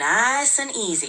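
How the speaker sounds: put-on relaxed, easy, laid-back Texan drawl. Speaker teaching someone to sound more Texan, demonstrating a relaxed Texan drawl. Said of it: "That's sounding more Texan already".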